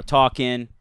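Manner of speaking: "talking" said as talkin', no final G; dropped G. Shown as a demonstration. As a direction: clip the ending of "talking" to -in. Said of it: "Philadelphians don't use their G's".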